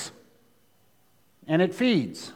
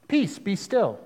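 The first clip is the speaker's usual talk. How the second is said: calm command; 5 dB quieter, slower than usual. Retold or imitated. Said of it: "Jesus didn't freak out".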